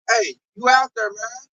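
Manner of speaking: shouted hey to the crowd outside; calling out. Pretend. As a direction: hail them from far off. Calling out to unbelievers.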